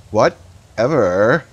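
slow, drawn-out sassy whatever. Pretend. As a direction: stretch Whatever out like a snotty teen. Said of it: "I know I'm terrible".

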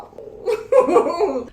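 high, loud real laugh breaking out; bright bubbling laugh; burst of laughter. Real, not acted. Laughs at own mimed squint.

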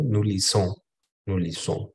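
"lisons" ending on a nasal "on" with no S; "nous lisons" with the last vowel held nasal. Shown as a demonstration. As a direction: let "lisons" close in the nose, cut off the S. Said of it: "como que se nos quede en la nariz".

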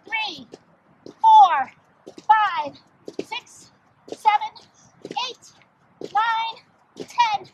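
counting while jumping; breathless count during plank jacks; doing plank jacks. Real, not acted. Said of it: "you really sped that up".

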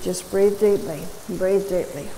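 soft, steady reassurance, fading; calm her down gently but firmly. Retold or imitated. Speaker soothing the panicking woman, firm but calm. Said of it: "firmly but calmly".

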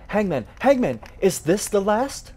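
high, loud plea; crying out. A narrator's reading. Townsfolk begging to know if hangings end, crying out. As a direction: cry out to him, pitched high. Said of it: "and we cried again".

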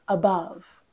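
"above" with light "a", stressed "bove"; second-syllable stress. Shown as a demonstration. Example of a two-syllable iamb, second-syllable stress. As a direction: slowly lean on the end of "above". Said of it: "second being stressed".

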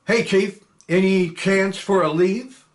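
a cocky airman pushing his luck; brash young sailor. Acted. Thomas voiced in a play reading.

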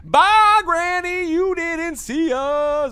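high gloating taunt, slow at the end; sing-song tease at the villain. Acted. Taunting Granny after escaping.

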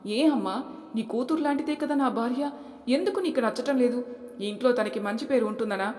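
a son confronting his mother, hurt and accusing. Acted.

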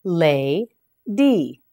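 "lay" then "D", each syllable said apart; split into syllables. Shown as a demonstration. Teacher splitting a word into syllables for kids, syllable by syllable. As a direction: break "lady" into "lay" and "D".

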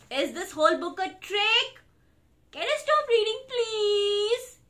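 high, loud wail of complaint; mock pleading. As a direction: beg to be let off, hammed-up. Reader begs to stop reading.

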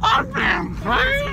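high, giddy shriek; excited shout. Real, not acted. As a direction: shriek it with loopy glee. Loopy patient shrieks with glee.

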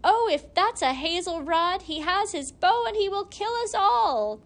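high, loud panicked hags; terrified screams. A narrator's reading. Hags screaming as Gilly aims his bow, terrified. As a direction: shriek in terror at the bow. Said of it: "they screamed out together".

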